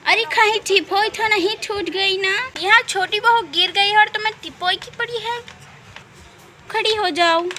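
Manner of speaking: high, loud worried cry; mother-in-law shocked by the fall; alarmed. Acted.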